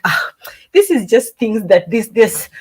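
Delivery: light Nigerian accent imitation; a hint of Nigerian accent. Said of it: "I'm doing a Nigerian accent".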